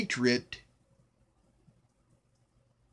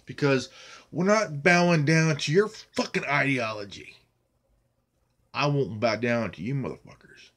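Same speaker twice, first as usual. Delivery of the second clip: angry defiance; 4 semitones lower, 4 dB louder than usual. Real, not acted. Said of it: "I am pissed off".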